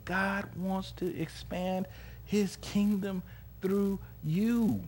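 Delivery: earnest preaching. Real, not acted. Preacher urging laborers to participate willingly, slow earnest preaching. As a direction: stretch out the key words for the congregation.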